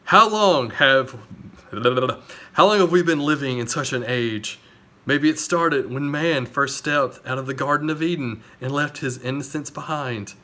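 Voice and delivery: dramatic movie narrator. Retold or imitated. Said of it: "how they ended in the movie with Erica's voice".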